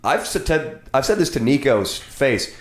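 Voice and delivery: echoing under a bridge. Real, not acted. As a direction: voice ringing in an echoey room. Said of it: "This is really echoing here".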